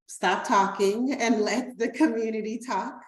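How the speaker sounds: talking through a light laugh. Real, not acted. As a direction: let a real laugh lift the words. Laughing as she hands over.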